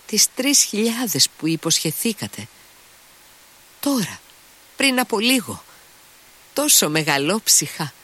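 insistent Mitya. Acted. Mitya pressing the lady for the three thousand, high. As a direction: remind her hard, voice up high.

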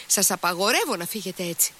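fast, high-pitched command; exclaiming. A narrator's reading. Lise forbidding him to leave, exclaiming. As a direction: blurt out an imperious girlish order. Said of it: "ξεφώνησε η Λις".

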